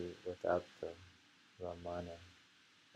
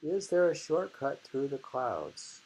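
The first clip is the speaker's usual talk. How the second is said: re-reading a haiku; 5 semitones higher, 4 dB louder than usual. Shown as a demonstration. Rereading the haiku to stress its question, lifted then falling. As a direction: ask the question up high, let the moon fall. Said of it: "She says question mark".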